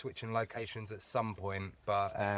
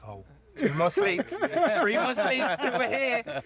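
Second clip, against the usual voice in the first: put-on excited kid voice; 12 semitones higher, 5 dB louder than usual. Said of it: "I was like".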